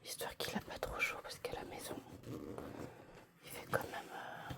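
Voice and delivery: soft unvoiced whisper; whispering over a crib. Real, not acted. Whispering near sleeping baby.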